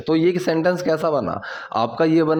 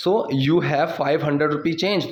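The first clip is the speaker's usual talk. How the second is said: slow model sentence; much slower than usual. Shown as a demonstration. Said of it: "teacher models English slowly".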